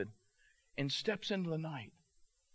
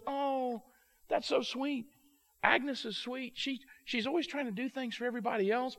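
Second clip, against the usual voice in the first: high-pitched, touched wife's voice; touched cooing; 9 semitones higher than usual. Retold or imitated. Wife moved by the party plan.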